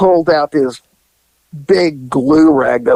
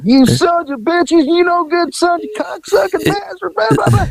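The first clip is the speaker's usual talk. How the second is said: retold screaming. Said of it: "she's screaming at".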